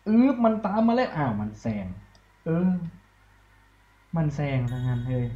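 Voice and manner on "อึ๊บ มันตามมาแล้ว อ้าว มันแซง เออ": much higher and louder, caught off guard; surprised high-pitched outburst; startled cry. Real, not acted. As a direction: yelp as the rival passes. Rival overtakes him.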